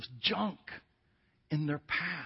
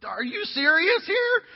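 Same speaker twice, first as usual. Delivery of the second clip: higher, slow, disbelieving "serious here"; mock stunned dismay; 8 semitones higher, 7 dB louder, slower than usual. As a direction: play her baffled look out loud. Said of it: "it was the look on her face".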